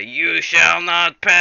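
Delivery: loud, slow, high wizard's proclamation; Gandalf. Retold or imitated. Gandalf bars the way in the mines, drawn-out Gandalf shout. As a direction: draw out the last word in a big mock bellow. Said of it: "they hear Gandalf say".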